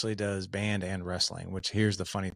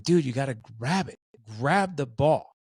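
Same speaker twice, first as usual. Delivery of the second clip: louder, pushier coach voice; 1 stern coaching bark; 4 semitones higher, 4 dB louder than usual. Retold or imitated. Dad drilling his ten-year-old on catching, sharp coaching bark. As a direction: drill it into him like a sideline coach.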